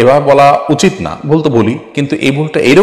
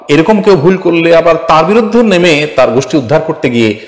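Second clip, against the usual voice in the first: louder and higher, scolding; raised rebuke; 7 semitones higher, 4 dB louder than usual. Real, not acted. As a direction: press hard against the attackers. Rebuking people who attack others. (উচ্চস্বরে, তিরস্কারের সুরে)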